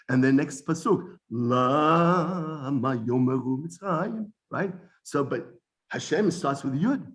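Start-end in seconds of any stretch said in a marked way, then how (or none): 1.3-4.3 drawn-out recitation. Shown as a demonstration. Reciting verse, drawing out Lama.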